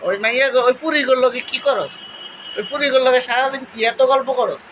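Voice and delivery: mild mock scolding in Cumilla dialect. Parents questioning the girls' endless chatting, Cumilla dialect scolding. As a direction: retell a parent's telling-off in Cumilla village speech. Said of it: "মানে এরকম বলতো আর কি".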